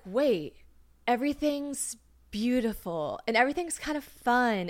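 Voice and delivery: dawning, dreamy wonder; lovey-dovey. Retold or imitated. Retelling the moment the Molly hit, lovey-dovey wonder. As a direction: marvel at everything as the high arrives. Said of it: "you're in your lovey-dovey stage".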